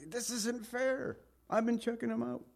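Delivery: a sulky accuser pleading his case; petulant Satan voice; Satan whining. Acted. Satan voiced complaining to God.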